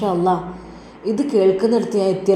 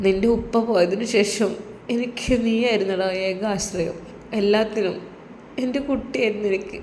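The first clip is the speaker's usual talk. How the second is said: sad mother; 2 semitones higher, 4 dB quieter than usual. Acted. Widowed mother tells her son she can't bear his absence, sad and soft. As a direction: pour out her loneliness. ആ ഉമ്മ വല്ലാതെ സങ്കടപ്പെടുന്നുണ്ട്.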